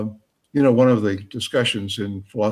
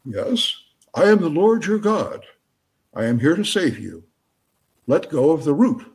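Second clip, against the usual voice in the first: raised, measured mock voice of God; booming voice; 5 semitones higher than usual. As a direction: proclaim it as God to the trapped man. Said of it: "a booming voice says".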